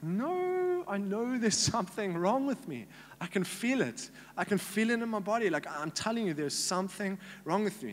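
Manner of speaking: high, pleading insistence that something is wrong; insistent protest. Retold or imitated. Patient insisting to his doctor, high insistent protest. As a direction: push back hard, pitch jumping up on no.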